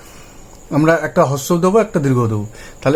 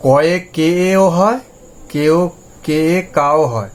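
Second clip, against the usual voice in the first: slow spelling out; slower than usual. Shown as a demonstration. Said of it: "কার হলো না কিন্তু".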